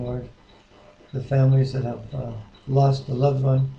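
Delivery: spoken prayer to God for grieving families. Acted. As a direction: pray earnestly and humbly, unhurried. Opens in prayer.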